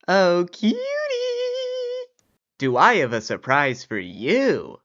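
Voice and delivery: high, cheery announcement; excited old man. Acted. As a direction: tease a big surprise. Old man returns home.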